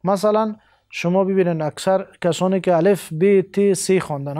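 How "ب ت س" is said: ب، ت، س named the Persian way, be, te, se; non-Arabic letter names. Shown as a demonstration. Teacher showing how untrained readers name letters, Persian-style pronunciation. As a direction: say س as "se", like a plain s. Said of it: "صحیح حروف تلفظ نمیشه به این شکل".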